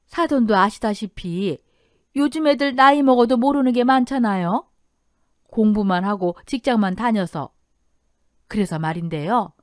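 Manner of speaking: lightly voiced persuasive in-law; mother-in-law to be. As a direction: press your request politely but insistently. Mother-in-law makes a request.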